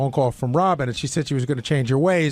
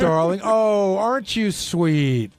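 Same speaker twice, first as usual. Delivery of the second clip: slow, syrupy imitation of a sincere coworker; mock serious talk voice; 2 semitones higher, much slower than usual. Cohost mocking Sal's reply to Robin, slow syrupy mock voice. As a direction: lay it on thick, slowly stretching sweetie. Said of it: "serious talk voice".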